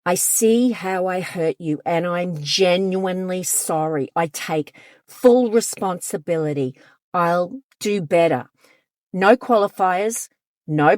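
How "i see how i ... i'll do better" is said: calm, sincere, owning it; genuine, accountable apology. Shown as a demonstration. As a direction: say it like you truly mean it. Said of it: "A real apology sounds something like this".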